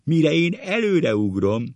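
high, loud, breathless excitement; acted hysterical storytelling; choking with laughter. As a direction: blurt it as if bursting with hilarity. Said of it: "fuldokolva a röhögéstől".

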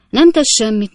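"nem tesz semmit" said loudly with stress on "nem"; emphatic reassurance. Acted. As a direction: brush it off firmly, punching "nem". Host brushing off broken glass.

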